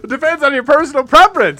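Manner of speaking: high, loud vintage announcer; old-timey voice. Pretend. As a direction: read like a 1950s ad man. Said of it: "The old-timey voice".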